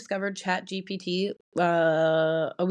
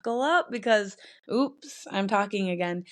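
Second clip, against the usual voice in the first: reading the intro aloud; 3 semitones higher than usual. Shown as a demonstration. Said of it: "that's an intro".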